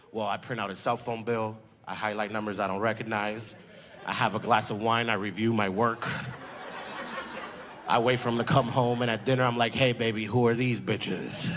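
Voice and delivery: lightly voiced composed woman, low; composed white woman. White woman explaining how she catches a cheater, lightly acted composure. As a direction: calmly recite it, low and understated.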